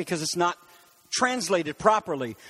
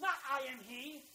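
much softer, throwaway I am he; dismissive aside; 4 semitones higher, 16 dB quieter than usual. Real, not acted. Preacher dismissing the English translation, quiet and throwaway. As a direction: toss off the wrong version. Preacher rejects the wrong reading.

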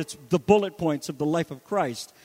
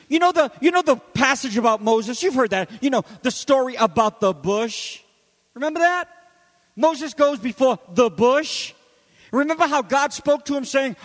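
mild snark; 4 semitones higher, 5 dB louder than usual. Retold or imitated. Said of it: "little divine snarkiness".

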